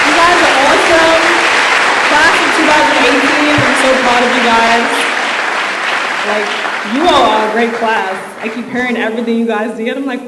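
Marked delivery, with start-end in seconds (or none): 0.1-8.1 loud, higher cheer for the graduates; cheering shout. Real, not acted. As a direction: shout your pride to the class.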